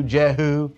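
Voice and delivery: Jehu with a short 'e' as in 'jet'; Jehu as JEH-hoo. Shown as a demonstration. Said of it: "any one of those is correct".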